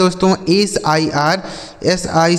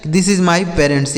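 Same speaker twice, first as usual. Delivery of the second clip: slow example reading; much slower than usual. Shown as a demonstration. Teacher reads example sentence slowly.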